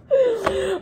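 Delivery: sudden high burst of laughter. Real, not acted. Reader cracks up at her own words, high laugh. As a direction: break into a squeaky laugh. Laughs while reading cards.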